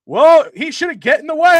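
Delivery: high, loud, indignant comeback; hammed-up heel excuse, yelled high; mock shout. Heel commentator snapping back at Gorilla, loud and high. Commentator's reply voiced in retelling.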